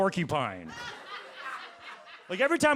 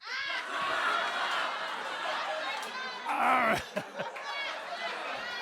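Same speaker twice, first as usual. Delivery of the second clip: airy orgasm laugh; 5 dB quieter than usual. Shown as a demonstration. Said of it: "it goes a little something like this".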